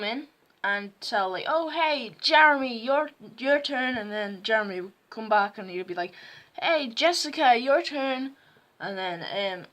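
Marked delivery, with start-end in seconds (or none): 1.5-4.0 lightly voiced classmate calling out. Classmate calling next pupil in story. 6.6-8.3 higher-pitched imitation of a kid calling out; lightly voiced pupil summoning the next; calling a classmate.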